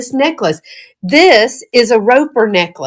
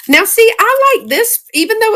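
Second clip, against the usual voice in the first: high, delighted; thrilled with a find; excited; 14 semitones higher than usual. Real, not acted. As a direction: show it off brightly. Excited showing jewelry.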